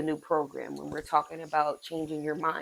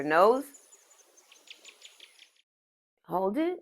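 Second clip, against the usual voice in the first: guided breathing. Real, not acted. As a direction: lead the breath step by step, leaving space. Leads breathing exercise.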